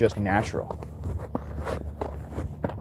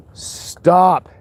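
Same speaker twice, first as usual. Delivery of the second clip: sharp stop command; 7 semitones higher, 7 dB louder than usual. Real, not acted. Yelling at dogs on walk.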